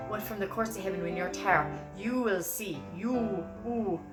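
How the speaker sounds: Irish lyric with long, rounded "you"; fronted "oo" in "you". Shown as a demonstration. Teacher demonstrating the lyric, fronted vowel in "you". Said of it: "O U is usually the oo".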